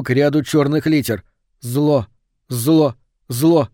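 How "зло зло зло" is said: rising exclaim. Acted. Reading frantic spirit message.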